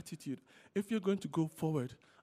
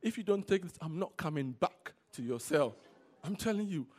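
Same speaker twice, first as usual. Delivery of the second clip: pleading; 4 semitones higher, 4 dB louder than usual. Retold or imitated. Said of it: "He would beg you".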